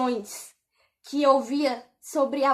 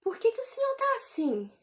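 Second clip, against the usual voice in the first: much softer anxious plea; hushed worried question; 6 dB quieter than usual. Retold or imitated. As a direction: ask it gently, frightened by what you see. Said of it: "olhei pra ele e falei assim".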